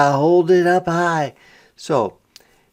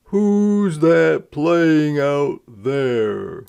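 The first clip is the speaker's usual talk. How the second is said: A singer asking; much slower than usual. Acted. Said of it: "asked the crowd".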